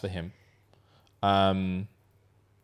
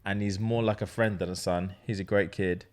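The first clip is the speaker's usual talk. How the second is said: lower, subdued first-person read; reading a post aloud; 4 semitones lower than usual. Acted. Host reading a dad's confession to co-host, even subdued read-aloud. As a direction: read it out evenly, a touch low.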